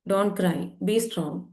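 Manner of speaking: very slow, each word of Don't cry, be strong drawn out; slow emphatic. Retold or imitated. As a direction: spell the rule out word by word. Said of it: "പഠിപ്പിച്ചു കൊടുത്തിട്ടുണ്ട് അല്ലേ സമൂഹം?".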